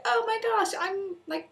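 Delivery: high, loud imitation gushing; mock excitement. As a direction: mimic someone thrilled by a shared connection. Mimics thrilled strangers claiming Welsh roots.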